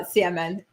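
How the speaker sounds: salmon said with a silent L, SAM-un. Shown as a demonstration. Correcting herself to the viewers, salmon with no L. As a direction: say salmon without the L. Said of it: "I struggled to not pronounce the L in salmon".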